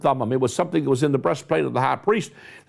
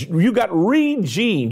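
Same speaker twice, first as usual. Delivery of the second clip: "regened" drawn out slowly with a falling end; slow down and land hard on "regened"; emphatic preacher coinage, said slowly; stressed regened; 3 semitones higher, slower than usual. Real, not acted. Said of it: "I'm gonna stress this word".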